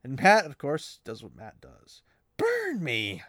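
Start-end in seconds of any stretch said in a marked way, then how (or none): 2.4-3.2 higher, louder, a put-on Mat cursing; mock Mat exclamation. Mat curses at the discovery, mock exclamation. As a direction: bark it like Mat swearing. Mat's catchphrase acted out.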